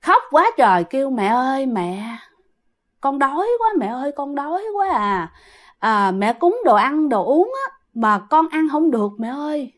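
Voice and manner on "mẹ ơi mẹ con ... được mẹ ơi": soft, plaintive crying plea; a hungry ghost child whimpering for mom. Retold or imitated. Dead daughter begging her mother at night, softly whimpering. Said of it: "nghe tiếng con mình kêu khóc".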